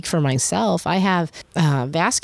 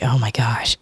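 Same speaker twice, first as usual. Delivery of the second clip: hushed, breathless fear at chest pain; a scared whisper to herself; frightened whisper; 5 semitones lower than usual. Retold or imitated. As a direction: whisper it as the panic hits. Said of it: "I was like".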